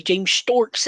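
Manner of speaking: "Storks" for Stokes, with a strong Bristol R; Bristolian pronunciation. Shown as a demonstration. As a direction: raise "James Storks" in Bristolian. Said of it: "who speaks proper Bristolian".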